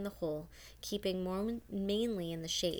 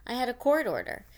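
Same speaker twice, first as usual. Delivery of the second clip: louder, higher indignant retort; indignant outburst; 6 semitones higher, 10 dB louder than usual. A narrator's reading. Lawyer cutting the warden off, indignant and loud. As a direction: throw the court order back at her.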